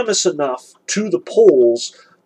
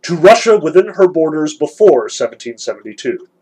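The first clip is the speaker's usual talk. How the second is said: booming voice; 5 dB louder than usual. Acted. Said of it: "pronounced in a booming voice".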